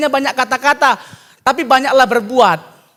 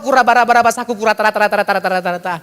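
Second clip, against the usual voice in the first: mock tongues babble; 3 semitones lower, faster than usual. Mocking tongues-speaking babble.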